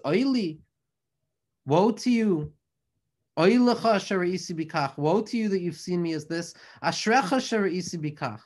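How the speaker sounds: mildly incredulous retort, pitch and volume lifted on the opening cries; retold incredulity. Rabbi Shimon answers his lamenting son-in-law, mildly incredulous. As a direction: answer back in understated, emphatic disbelief. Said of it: "looks back at him incredulously".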